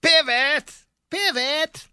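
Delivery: high, frantic yelling; Ross shouting pivot. Acted. Ross directing friends with the couch, high frantic yell. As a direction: bark orders up the stairs in panic. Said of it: "give your best shot".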